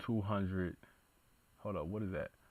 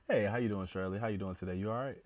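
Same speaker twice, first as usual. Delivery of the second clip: redone greeting; faster than usual. Pretend. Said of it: "let me run that back one more time".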